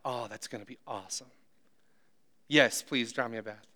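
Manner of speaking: soft, weak, pitiful quiet voice; pathetic sick husband. Retold or imitated. Feverish husband to his wife, pitiful and quiet. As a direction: sound sorry for yourself, barely there.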